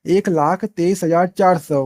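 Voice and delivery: slow, deliberate reading of the number; teacher slowly modelling how to read the number aloud; slow demo reading. Shown as a demonstration. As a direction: say each number word slowly and clearly. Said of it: "ऐसे पढ़ सकते हो".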